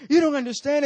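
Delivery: lightly acted distress; mock tearful plea. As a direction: imitate a woman pleading through tears. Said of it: "She starts crying".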